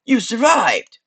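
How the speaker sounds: high, loud nasal amazement. Acted. Skull amazed at the waking adventurer, nasal exclamation. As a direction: exclaim it high through the nose. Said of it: "says a nasal voice behind you".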